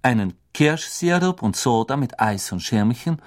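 barmaid voice. Acted. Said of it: "die Stimme einer Frau".

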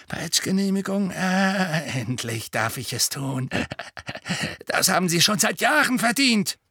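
high, gloating delight; a caretaker thrilled to finally punish; gleeful. A narrator's reading. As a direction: Filch delighted over the whipping permit, high and gleeful. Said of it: "ganz aus dem Häuschen vor Freude".

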